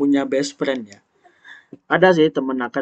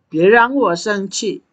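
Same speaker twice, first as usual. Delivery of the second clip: mock angry warning; 7 semitones higher, 4 dB louder than usual. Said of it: "dialog penuh drama ini".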